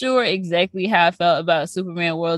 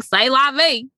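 saying vie as VAY with a Texas twang; drawled Texan C'est la vie; Texas accent; 5 semitones higher, 3 dB louder, slower than usual. Retold or imitated. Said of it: "we live in Texas, so people be like".

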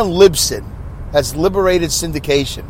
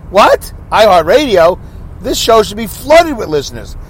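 raised, incredulous imagined reaction; mock astonishment; 4 semitones higher than usual. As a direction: act amazed at the big platform. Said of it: "You'd think I'd be like".

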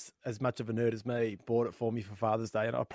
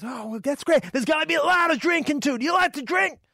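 cowboy voice; 4 dB louder than usual. Acted. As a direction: play the friendly cowboy neighbour big. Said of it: "He goes".

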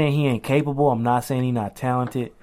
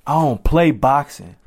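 Deontay Wilder; 3 dB louder than usual. Acted. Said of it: "What my man Deontay Wilder say?".

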